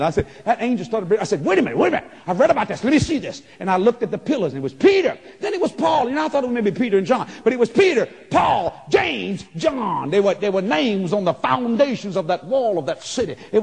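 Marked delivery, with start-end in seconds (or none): 1.4-3.4 louder, higher, eager; excited hollering at the wall. Retold or imitated. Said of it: "I start screaming and hollering". 4.5-10.1 much higher, louder shouting; joyful shouted names; excited shouting. Real, not acted. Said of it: "I start screaming and hollering".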